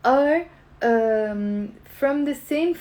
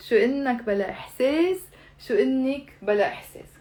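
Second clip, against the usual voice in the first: fast Arabic phrase; 2 semitones higher, much faster than usual. Shown as a demonstration. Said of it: "you have to say".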